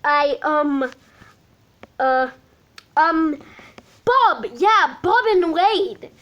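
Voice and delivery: put-on slow hesitant Irish-accented redo; Jack's voice, slowly. The speaker retaking the nervous answer in Jack's voice. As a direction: redo the halting line in Jack's voice. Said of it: "he said slowly".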